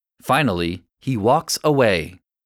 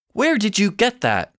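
accusing; 6 semitones higher than usual. A narrator's reading. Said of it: "she says accusingly".

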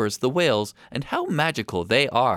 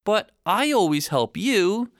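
higher-pitched, mild protest; complaining; 7 semitones higher, 3 dB louder than usual. A narrator's reading. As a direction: lightly plead like a wronged little brother. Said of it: "Pedro complains".

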